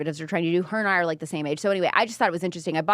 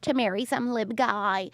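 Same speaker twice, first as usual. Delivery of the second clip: mock-earnest telling-off; mock scolding commenter; 3 semitones higher than usual. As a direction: imitate someone taking it far too seriously. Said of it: "take it so seriously".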